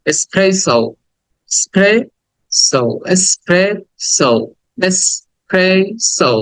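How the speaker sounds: very slow "espresso" in separate syllables; final "o" sound. Shown as a demonstration. Teacher drills students, slow "espresso" with final "ou". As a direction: break up "espresso", ending on "so". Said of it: "লাস্টে একটা ও sound".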